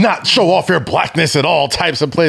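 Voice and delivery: pearl-clutching mock outrage. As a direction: play the shocked scold, slowly. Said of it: "people, like, clutch their pearls".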